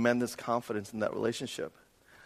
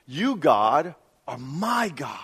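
slow, deliberate line with "my" drawn out and raised; stress on MY; 3 dB louder, much slower than usual. Shown as a demonstration. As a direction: set "my" apart as the weighty word. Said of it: "The emphasis is actually the word "my".

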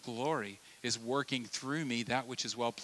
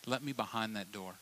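softer, intimate pleading; gentle insistence; 3 semitones lower, 7 dB quieter than usual. Retold or imitated. Friend urges you to open up, soft and intimate. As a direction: coax them to open up. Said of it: "They're saying".

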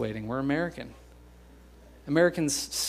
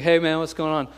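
phone voice to buddy; 3 semitones higher, 5 dB louder than usual. Retold or imitated. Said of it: "your voice changes when you're on the phone".

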